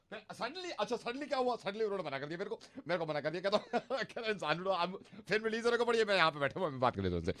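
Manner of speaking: put-on high voice. Prank caller retelling, put-on voice.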